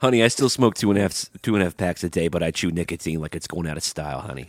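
hammed-up New York "honey" talk; put-on New York accent. Chain smoker confiding in co-host, put-on New York accent. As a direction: brag as a comic New Yorker. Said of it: "my trigger words are honey and dog".

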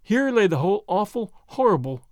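usual speaking voice

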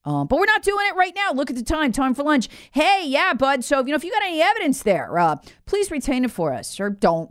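high-pitched, breezy mimicry; mock casual stalling. Investigators tipping off Biden's attorney, mock casual stalling. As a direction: imitate an official casually putting it off.

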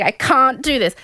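hammed-up crying complaint; mock tearful. Contestant crying to her family, mock tearful. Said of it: "she starts crying".

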